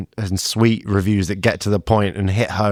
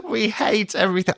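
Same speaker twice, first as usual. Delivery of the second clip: mock miserable reviewer; 13 semitones higher than usual. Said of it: "And they were like".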